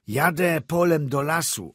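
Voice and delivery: high, loud reply over the storm; shouted answer. A narrator's reading. Driver answering the doctor over the gale, shouting. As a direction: shout back over the wind.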